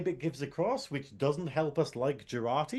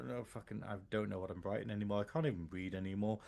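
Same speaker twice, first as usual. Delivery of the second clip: muttered aside; 8 semitones lower, 10 dB quieter, faster than usual. Real, not acted. Mutters aside about own notes.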